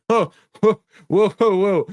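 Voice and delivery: high, loud, astonished whoas; stunned whoa. Acted. Kid offered fifty bucks for his card, astonished. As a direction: reel back at the huge offer.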